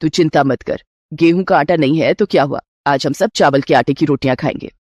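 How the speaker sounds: a doting mother-in-law offering a gift. Acted.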